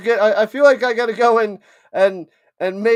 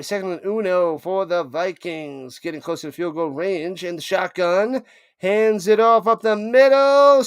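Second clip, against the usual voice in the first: slow, drawn-out live call of the run; play-by-play call; 2 semitones higher than usual. Acted. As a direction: narrate the run up the middle.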